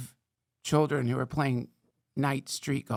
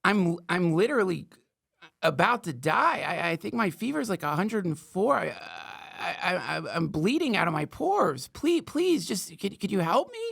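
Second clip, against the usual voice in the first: mock desperate pleading; 3 semitones higher than usual. Pretends to plead for help.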